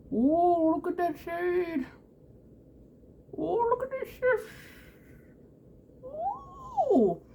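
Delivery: high, delighted cooing over the shimmer; breathless excitement; excited ooh. Real, not acted. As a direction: squeal with delight at the colour. Admiring eyeshadow shimmer on camera.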